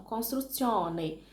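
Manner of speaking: "construzione" spelled out slowly, Italian ending -one; slow it down and land each syllable of "construzione"; very slow Italian demo word, ending in -one; careful Italian. Shown as a demonstration. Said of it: "Um exemplo".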